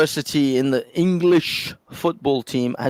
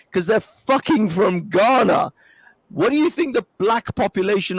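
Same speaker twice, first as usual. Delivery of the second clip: exasperated shout; 5 semitones higher than usual. Real, not acted. Heated argument over football team.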